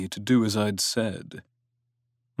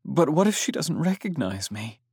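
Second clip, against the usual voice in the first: anxious; 6 semitones higher than usual. A narrator's reading. Tearful girl fears rejection.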